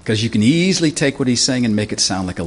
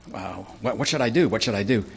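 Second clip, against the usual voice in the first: worried; 5 dB quieter than usual. Retold or imitated. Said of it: "Ahaz, the wicked king, is thinking".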